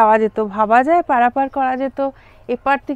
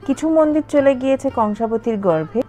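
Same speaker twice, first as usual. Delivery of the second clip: calm storytelling voiceover over music; documentary narration. A narrator's reading. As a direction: narrate the history evenly. (তথ্যচিত্রের ধারাভাষ্য)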